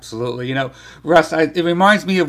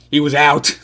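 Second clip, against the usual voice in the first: imitating Yogi; 3 dB louder than usual. Yogi quoted in museum story.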